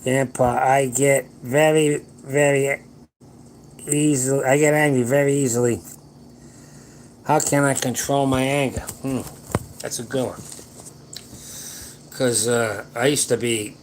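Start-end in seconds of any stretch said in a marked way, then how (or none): 0.0-8.8 slow, louder, word by word, spelling out the comment; slowly reading a comment aloud. Shown as a demonstration. Reading a viewer's question aloud to his audience, slow and careful. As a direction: read it out carefully. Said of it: "I gotta read it".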